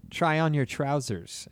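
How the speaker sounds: slow mock British accent; put-on English accent. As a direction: imitate a very British teacher, taking it slowly. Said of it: "were they too British?".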